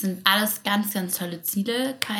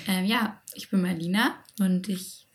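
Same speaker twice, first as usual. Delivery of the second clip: hoarse, stuffy voice from a cold. Real, not acted. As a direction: speak through a hoarse head cold. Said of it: "Erkältung ... wie man hört".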